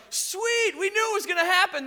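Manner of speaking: high, loud, quick mock-casual cheer; mock cheerful. Women at the tomb, imagined as unfazed, hammed-up delight. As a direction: toss it off like it was no surprise. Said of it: "They weren't like".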